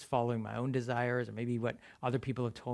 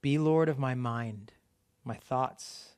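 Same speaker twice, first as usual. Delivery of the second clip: prayer read again, a bit slower and steady. Acted. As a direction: lead the prayer unhurried for them to follow. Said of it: "I'm gonna read that again slowly".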